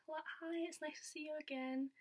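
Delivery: a light impression of a cheery drag queen; mild Trixie voice. Trixie's greeting voiced high.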